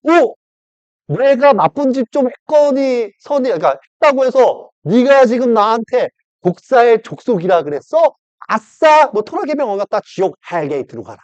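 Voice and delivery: high, loud gloating mockery of Satan; high taunting devil voice; mocking Satan. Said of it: "사탄이 와서 말하기를".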